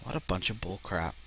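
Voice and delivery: a breathless, voiceless aside of disgust; whispered grumble. Real, not acted. Player grumbles to himself, whispered and fed up. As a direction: mutter it under your breath.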